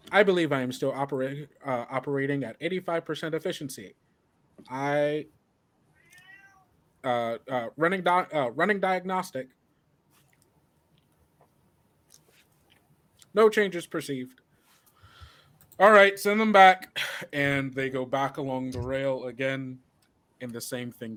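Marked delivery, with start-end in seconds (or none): 0.1-14.4 quick machine status report, pitched up; turret AI voice. Acted. Turret answers the test subject, brisk higher AI report. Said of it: "hear the voice of the turret go". 15.8-17.0 loud, high-pitched order; disembodied voice. Acted. Unseen overseer ends the turret test, loud raised command. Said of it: "a disembodied sound of someone's voice going".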